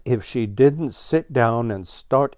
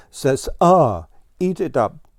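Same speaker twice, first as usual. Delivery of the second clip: coaxing parent; 4 semitones higher, 4 dB louder than usual. Acted. Blue Jay feeding children.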